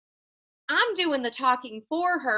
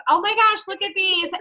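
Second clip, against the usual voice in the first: put-on nervous new girl gasping; 7 semitones higher, 6 dB louder than usual. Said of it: "And she's like".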